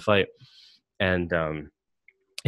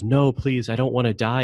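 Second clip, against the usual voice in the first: higher, louder mock plea for life; imitated pleading; 4 semitones higher, 4 dB louder than usual. Host imitates android faking emotions, mock pleading. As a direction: act out a put-on frightened beg. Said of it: "faking these emotions".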